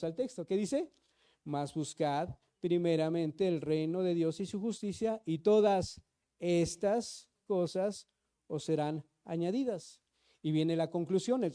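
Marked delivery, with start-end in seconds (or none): 1.4-10.0 slow, measured Bible reading; preacher reading scripture to the congregation. Acted. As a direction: read the verse aloud slowly and deliberately. Rereading key verse.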